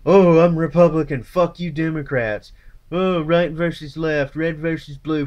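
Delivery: mock partisan. Mocking partisan bickering.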